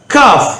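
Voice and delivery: காஃப் as a light 'kaaf'; thin, open aa in காஃப்; k from the mouth. Shown as a demonstration. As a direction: make the k of காஃப் forward in the mouth. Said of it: "இங்கேருந்து வாய் மொழியில் வரக்கூடியது".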